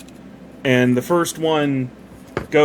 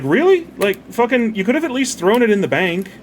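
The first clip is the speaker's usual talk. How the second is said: mock angry outburst; 8 semitones higher than usual. Master scolding the servant who buried money, mock-angry. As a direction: act out the master's exasperated rebuke.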